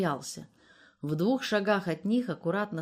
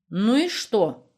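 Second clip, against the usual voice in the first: put-on proud old woman, chin up, louder; 3 semitones higher, 6 dB louder, slower than usual. A narrator's reading. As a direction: answer with dignity. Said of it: "гордо ответила старуха". (гордо, с достоинством)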